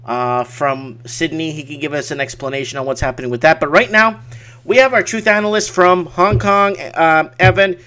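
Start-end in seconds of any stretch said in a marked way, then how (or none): 3.6-7.8 building hype, higher and louder; hype announcer. Acted. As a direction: pump up the crowd like a fight announcer. Hyping up the fight debate.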